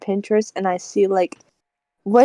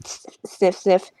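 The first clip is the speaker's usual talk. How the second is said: mimed sniffing sounds; sniffing the air; 2 semitones lower, 3 dB quieter than usual. Retold or imitated. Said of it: "He's like, he's like".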